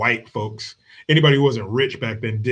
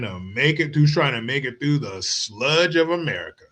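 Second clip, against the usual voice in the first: mock-solemn praise fading to a whisper; sarcastic tribute. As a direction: lay the fake praise on thick.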